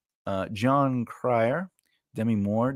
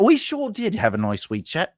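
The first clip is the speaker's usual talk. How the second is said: put-on a stab at an English accent; poor English accent; 6 semitones higher than usual. Host echoing a viewer, poor English accent. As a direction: put on a shaky attempt at English. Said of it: "poor English accent".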